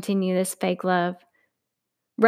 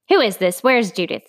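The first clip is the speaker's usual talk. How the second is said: displeased. Acted. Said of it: "in a not-so-happy-to-hear-me voice".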